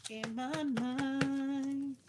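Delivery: slow, stretched and dreamy; dreamy slow-motion musing; dreamy drawl. Pretend. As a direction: drag it out like a daydream. Repeats dreamy aside.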